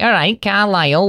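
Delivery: high, exaggerated Cumbrian lilt; mock Cumbrian accent. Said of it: "grew up speaking fucking Cumbria".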